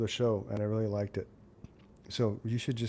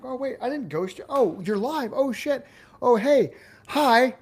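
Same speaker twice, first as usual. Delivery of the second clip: high, louder re-enacted panic; flustered surprise; 12 semitones higher, 8 dB louder, slower than usual. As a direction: act caught off guard, blurting greetings far higher. Retelling surprise at being live.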